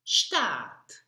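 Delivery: Staat whispered with a sh start, st as sht; model pronunciation. Shown as a demonstration. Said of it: "Listen and repeat after me".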